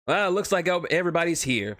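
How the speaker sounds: cheeky mercenary, lightly voiced; lightly voiced Wade. Wade's voice in the read story.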